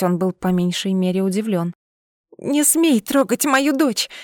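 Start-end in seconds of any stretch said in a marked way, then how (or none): 2.4-4.1 slow strained hiss, pitched up; a mother choking out a warning to her captor. A narrator's reading. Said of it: "прошипела я, задыхаясь".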